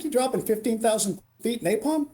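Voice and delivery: high, disbelieving question; mock-astonished, voice up high; retold incredulity. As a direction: question it as if it's absurd, pitch lifted. Retold disbelief at drop altitude.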